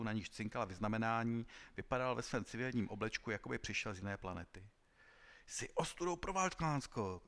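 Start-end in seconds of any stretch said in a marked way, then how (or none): 5.5-7.2 high, slow, shouted scorn; marshal yelling. A narrator's reading. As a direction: yell the insult down at the deserter. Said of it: "křičel velký maršál".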